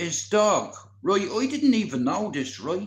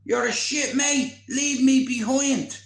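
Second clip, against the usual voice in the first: angry; 5 semitones higher, 4 dB louder than usual. Retold or imitated. Mate abandoned him to the dog.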